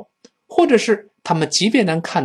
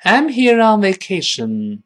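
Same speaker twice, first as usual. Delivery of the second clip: high, slow, loud sentence; loud model reading; 6 semitones higher, 5 dB louder, slower than usual. Shown as a demonstration. Teacher leading the class aloud, loud slow model reading. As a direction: read it out big and slow for repetition. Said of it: "跟老师大声读一遍".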